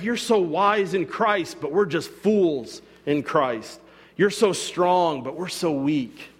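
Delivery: slow, mock-admiring praise; sarcastic. Paul mocking the proud church, slow and sarcastic. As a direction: drag it out like fake flattery. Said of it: "He's be-, being sarcastic".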